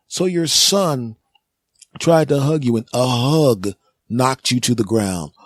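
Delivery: incredulous paramedic. Acted.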